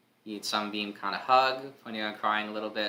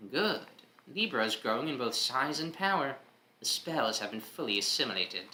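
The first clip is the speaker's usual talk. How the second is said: villain voice; 2 semitones higher than usual. Acted. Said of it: "I've used this voice in this series".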